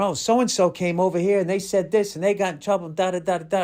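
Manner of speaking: high, quick mock-gossip voice; gossiping warners. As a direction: rattle it off like nervous gossip. Imitating people's warnings.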